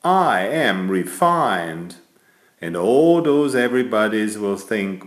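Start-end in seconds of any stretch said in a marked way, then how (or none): 0.0-2.0 proud announcement. Pretend. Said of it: "you can announce to everybody".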